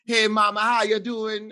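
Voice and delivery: high, loud sing-song greeting; code-switched greeting. Retold or imitated. Brooklyn lady greeting someone new, loud and high. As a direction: put on a bright friendly code-switch voice. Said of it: "she'd be like".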